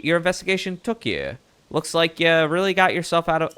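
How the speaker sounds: put-on old-timey Mid-Atlantic reporter voice; Mid-Atlantic accent. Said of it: "my, uh, Mid-Atlantic act-, accent".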